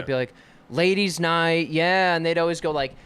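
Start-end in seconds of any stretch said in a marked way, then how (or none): 0.7-2.2 loud, slow ladies' night hype; hype-man call. Retold or imitated. Comic hyping up a ladies' night crowd, loud and slow. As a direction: whip up the crowd.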